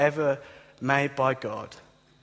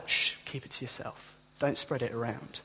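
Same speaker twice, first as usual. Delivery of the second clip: a whispered shush, keeping a secret; hushed; 3 semitones lower, 6 dB quieter than usual. Retold or imitated. Jesus hushing those who guessed right, whispered. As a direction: hush them, keep it secret.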